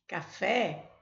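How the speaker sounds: "Café" said clearly with the stress on "fé"; stress on the last syllable. Shown as a demonstration. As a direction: lean on "fé" in "Café". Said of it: "a sílaba tônica ... é a última".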